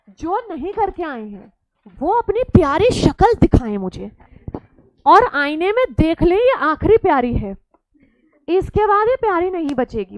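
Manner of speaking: loud teasing warning to the class; booming mock menace at lazy students; mock threat. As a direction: play the stern teacher, half joking. Teacher teasing students who skipped homework.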